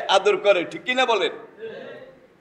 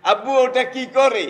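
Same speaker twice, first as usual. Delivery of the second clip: put-on small child asking; 5 semitones higher than usual. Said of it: "ওটার নাম কাক।".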